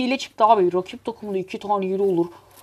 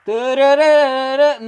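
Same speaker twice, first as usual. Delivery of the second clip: higher, sustained "dırırırı" burst; drawn-out trilled noise; 3 semitones higher, 4 dB louder than usual. Real, not acted. Gamer making noise mid-match, drawn-out trilled cry. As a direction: let out a long rattling dırırırı. Spelt noise during game play.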